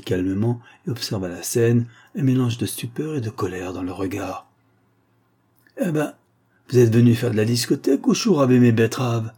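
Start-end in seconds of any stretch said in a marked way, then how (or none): 5.8-9.3 dry, sharp farmer's retort, louder; acted curt rebuke. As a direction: snap it out at the intruders. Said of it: "lança-t-il sèchement".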